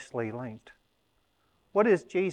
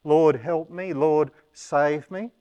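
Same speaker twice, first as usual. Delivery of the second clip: desperate plea; 3 semitones higher, 7 dB louder than usual. Retold or imitated. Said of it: "when we are in various situations".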